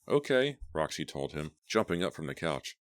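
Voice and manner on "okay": high, bright, eager. A narrator's reading. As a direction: jump at the offer. Roxy eager, jumping up.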